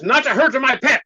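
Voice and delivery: imitating the master scolding them over his pet; stern master warning. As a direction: warn them off his pet, half laughing.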